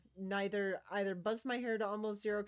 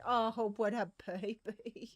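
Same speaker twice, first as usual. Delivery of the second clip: affectionate greeting; 5 dB louder than usual. Real, not acted.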